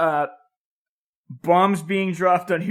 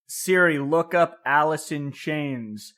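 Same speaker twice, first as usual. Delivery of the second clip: commercial voice; slower than usual. Retold or imitated. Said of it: "those commercials that are like".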